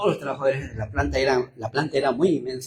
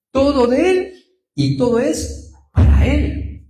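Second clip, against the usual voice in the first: louder and higher, rising to a cry; fervent preacher's cry; preaching proclamation; 9 semitones higher, 6 dB louder, slower than usual. Real, not acted. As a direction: proclaim it to the congregation at full force. Preacher proclaiming God owns everything.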